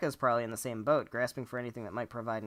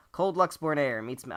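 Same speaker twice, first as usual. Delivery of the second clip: higher, louder brooding edgelord read; edgy voice; 4 semitones higher, 7 dB louder than usual. Acted. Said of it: "I can't do the, the edgy voice anymore".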